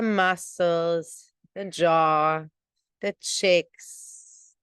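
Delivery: slow, measured meditation guidance with long pauses; guided meditation. Real, not acted. Teacher settling morning meditators into their seats, guided meditation voice. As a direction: draw the words out to settle the listeners.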